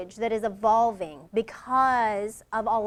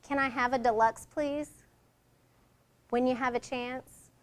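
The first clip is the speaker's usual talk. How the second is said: polite soft request; 4 dB quieter than usual. Shown as a demonstration. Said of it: "Received better, yes?".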